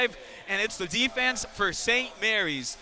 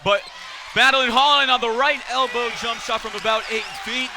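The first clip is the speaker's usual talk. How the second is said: louder live shot call; excited play-by-play; 2 semitones higher, 5 dB louder than usual. Real, not acted. Commentator calls Holland's jump shot, excitedly. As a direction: lift the voice as the shot goes up.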